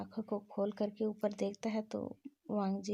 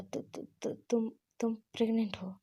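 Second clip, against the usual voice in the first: shocked stammer. Acted. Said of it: "बहुत shocked हो गया था".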